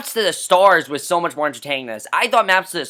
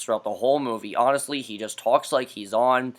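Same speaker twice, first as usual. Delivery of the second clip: slips into a lower, softer droning voice; mock Jeff Bridges drone; 6 semitones lower, 5 dB quieter than usual. Reviewer briefly slips into a lower, softer mock drone. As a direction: dip into the lifeless monotone briefly. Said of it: "talks like this".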